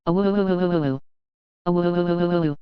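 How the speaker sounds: long full wolf howl; head-back howl. A narrator's reading. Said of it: "threw back his head and howled".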